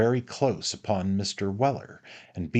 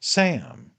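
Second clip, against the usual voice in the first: higher, sharp summons; calling out; 8 semitones higher, 4 dB louder than usual. Acted. Master summons his servant, calling out. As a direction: call out for your servant.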